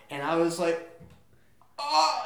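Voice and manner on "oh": retold pained oh. Retold reaction to sudden pain.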